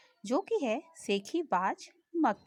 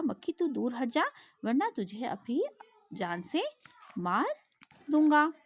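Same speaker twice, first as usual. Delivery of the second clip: angry lion; 2 semitones higher than usual. Acted. Teacher voicing lion scolding the fly, mock angry. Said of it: "शेर को गुस्सा आया और उसने कहा".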